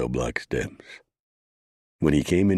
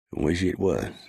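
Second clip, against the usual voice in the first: a higher, rueful deputy; lightly voiced regret; 6 semitones higher than usual. Rio answers the prisoner.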